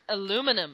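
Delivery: "aluminum" the American way, a-LOO-mi-num; American pronunciation. Shown as a demonstration. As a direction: say "aluminum" with no second i, stress on LOO. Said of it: "as the Americans call it".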